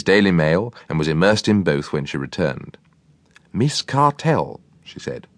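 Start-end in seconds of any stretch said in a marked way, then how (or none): 3.5-4.6 high cook voice. A narrator's reading. Cook's voice in story.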